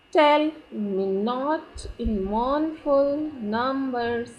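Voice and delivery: very slow, drawn-out verse, "Tell" hit first; slow scansion, strong-weak beat from "Tell" onward; trochaic rhythm. Shown as a demonstration. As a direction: chant it in trochees, stressing "Tell", "not", "mourn" and "num". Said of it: "So this is the pattern".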